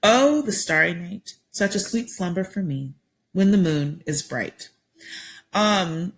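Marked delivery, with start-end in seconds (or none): 0.0-4.7 poem reading. Shown as a demonstration. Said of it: "So my first one is titled Bedtime".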